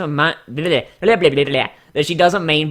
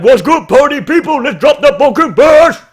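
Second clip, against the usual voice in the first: higher, louder party announcer shout; hammed-up DJ hype call; 10 semitones higher, 9 dB louder than usual. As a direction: pump up the crowd like a club DJ. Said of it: "be up on the stage and be like".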